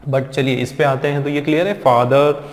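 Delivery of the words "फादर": फादर as "faa-duh"; silent R. Shown as a demonstration. Teacher introduces the word, silent R. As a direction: leave the final र off फादर. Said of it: "ये र नहीं पढ़ते हैं".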